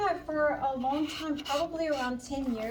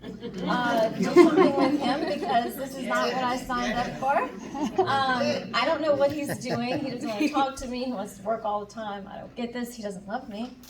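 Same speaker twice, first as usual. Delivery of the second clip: complaining prayer; 4 dB louder than usual. Retold or imitated. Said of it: "and I'm like".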